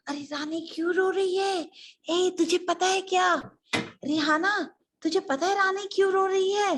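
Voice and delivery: high, anxious questioning; flustered maids. Acted. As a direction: ask around in a worried fluster. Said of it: "वह बहुत घबरा गई". (घबराई दासी की आवाज़)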